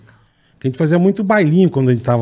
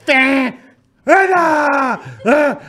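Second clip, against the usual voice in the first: much higher hammed-up calling shout; mock shout; 11 semitones higher, much slower than usual. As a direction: yell her name to startle her. Kid shouting to scare a friend. (grito encenado chamando Ana)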